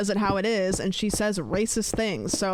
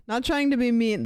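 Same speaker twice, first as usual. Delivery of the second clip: mock chat message; 3 semitones higher, 3 dB louder than usual. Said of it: "This is so funny to preface this with".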